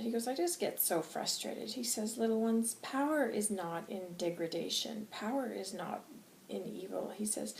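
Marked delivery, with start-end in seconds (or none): 0.3-1.7 higher, gentler confession; calmed down. Acted. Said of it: "he seems to have calmed down a little bit". 2.2-7.1 softer, measured teaching; calmed down. Acted. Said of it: "he seems to have calmed down a little bit".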